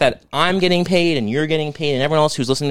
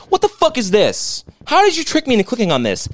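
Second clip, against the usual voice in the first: mocking high whine; 10 semitones higher than usual. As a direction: read it as a squeaky troll. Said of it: "He wrote".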